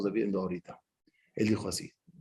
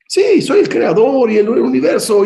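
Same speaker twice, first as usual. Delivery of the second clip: booming voice of God; 10 semitones higher, 11 dB louder than usual. Retold or imitated. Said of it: "dice Hashem".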